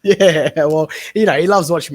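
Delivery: laughing at yourself about your son's favourite wrestler; still laughing. Real, not acted. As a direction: giggle it out, a bit embarrassed.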